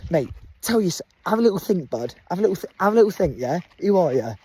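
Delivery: lightly voiced self pep talk, chanting who are ya. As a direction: hype himself up like a football chant. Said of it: "I thought".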